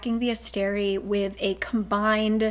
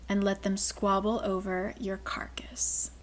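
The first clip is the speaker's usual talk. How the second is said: threatening whisper; menacing whisper; 6 dB quieter than usual. Acted. Queen threatens Therion.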